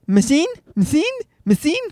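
put-on high, lisped toddler question; small high child voice, mangling the word; toddler learning to speak. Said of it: "when he was just learning to speak".

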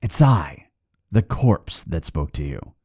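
eerie, fading corpse voice; dead man's hollow voice. Acted. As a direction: speak from the grave. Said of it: "said the voice".

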